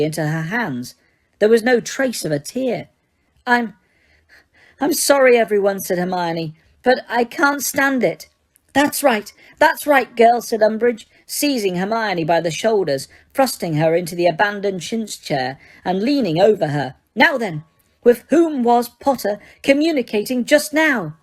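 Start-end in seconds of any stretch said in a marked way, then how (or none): 3.5-5.8 mock sobbing girl. Hermione fake sobbing. 6.8-8.3 mock sobbing girl. Hermione fake sobbing. 8.7-10.4 high, gloating coax; triumphant Umbridge. Acted. 17.1-21.2 high, firm enraged witch; clipped fury held in check; Umbridge voice. Acted.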